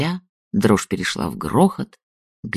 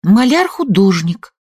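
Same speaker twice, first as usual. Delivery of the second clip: higher, slow and firm, each word weighted; weighty statement; 8 semitones higher, 5 dB louder than usual. A narrator's reading. Kira firmly corrects the old man about her father. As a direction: lay it down weightily. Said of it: "веско сказала Кира".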